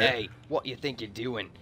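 a slow mock British thug accent; British tough-guy challenge, drawn out; hammed-up British villain accent. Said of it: "No, that's British".

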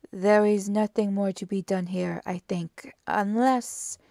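lightly voiced pondering detective; firm start, left hanging on a new thought; Poirot. Poirot surveys the room.

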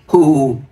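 hammed-up boo-hoo sobs; mock frantic wailing. A narrator's reading. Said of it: "điên cuồng gào thét". (khóc hu hu ăn vạ, giả vờ)

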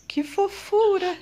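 put-on high, cooing baby-talk voice; cutesy baby talk. Vlogger cooing over a tiny plant in baby talk. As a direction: coo it like talking to a baby.

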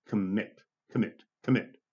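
Commit with the stress on its second syllable, MIT; stress on last syllable. Shown as a demonstration. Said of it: "two syllables on the last syllable".

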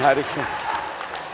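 whisper. Real, not acted. Joking aside to congregation.

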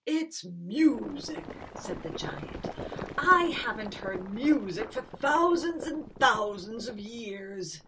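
loud booming giant, pleased; delighted giant. Acted. Giant telling Carolinda music makes him happy, booming. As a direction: boom out your joy.

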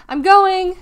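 high, loud, drawn-out call. A narrator's reading. Deli leaving through the door, calling out loudly. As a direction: call from the door to the whole house.

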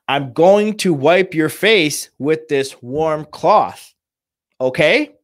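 slow, measured caregiver explanation; patient reassurance, every word drawn out; calm, soothing. Shown as a demonstration. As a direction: announce each step gently and slowly to a parent. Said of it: "in a low, calm, soothing voice".

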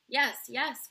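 put-on children crying out agreement, loud and high; eager cry. A narrator's reading. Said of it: "cried the children".

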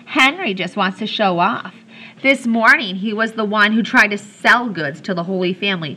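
a touch of taunting in a lively read; mild mocking jab. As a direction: tease him in front of the others. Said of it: "she mocked".

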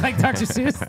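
laughing high while saying it. Real, not acted. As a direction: blurt it through a real laugh. Laughing at Doctor Seuss joke.

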